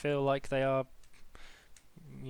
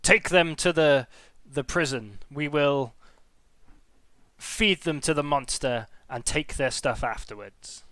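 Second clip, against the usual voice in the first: kobold guard voice; 6 dB louder, slower than usual. Acted.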